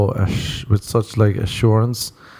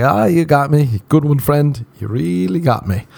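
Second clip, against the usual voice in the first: mock cheerful; 6 semitones higher than usual. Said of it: "And I'd be like".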